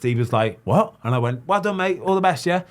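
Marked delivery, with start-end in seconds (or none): 0.6-0.9 snapping back. Retold or imitated. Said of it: "he snapped". 1.5-2.6 cheerful praise. Retold or imitated.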